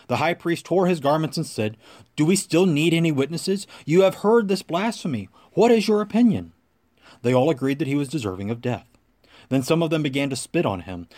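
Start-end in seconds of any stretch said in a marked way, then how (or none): 2.2-6.5 building from firm to a raised, higher accusation; rising outrage. Acted. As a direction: let the high priest's outrage climb, line by line. High priest condemns blasphemy.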